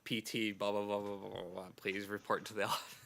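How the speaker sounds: imitating a tinny PA chime and call; mock school intercom call; PA announcement. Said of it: "P A announcement sound".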